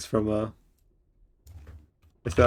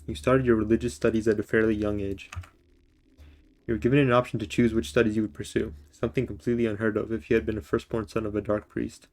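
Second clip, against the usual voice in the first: reading voice, calm and even; story narration. Acted. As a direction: narrate the game's backstory like an audiobook. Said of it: "I gotta get my reading voice out".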